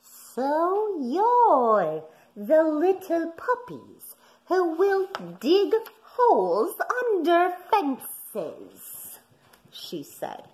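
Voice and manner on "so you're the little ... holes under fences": displeased mother. A narrator's reading. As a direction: scold the puppies like a cross mother. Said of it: "their mother was greatly displeased".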